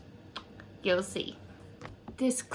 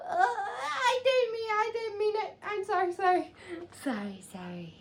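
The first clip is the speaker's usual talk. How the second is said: soft, hurried sorry, falling in pitch; hushed apology; 8 semitones higher, 9 dB quieter than usual. Acted. Teasing speaker saying sorry to Gabriella, hushed apology. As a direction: apologise small and quiet, dropping away.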